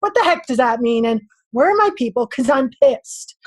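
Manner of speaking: mildly fired-up warrior challenging God; a touch of angry warrior, demanding answers; lightly acted warrior voice, indignant. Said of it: "in my warrior voice".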